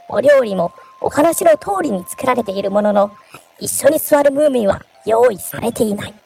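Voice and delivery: variety show narration. Shown as a demonstration. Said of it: "ちょっとナレーション風に".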